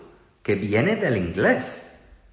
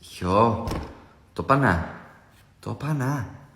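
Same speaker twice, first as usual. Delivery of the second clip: Andalusian accent; 4 dB quieter, slower than usual. Shown as a demonstration. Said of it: "Y en andaluz".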